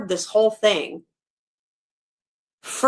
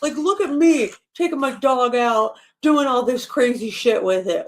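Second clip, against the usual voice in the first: higher, smug boastful mimicry; mock bragging owner voice; mocking show-off owner; 3 semitones higher than usual. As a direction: sneer at careless dog owners by aping them. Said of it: "go out in extreme heat and go".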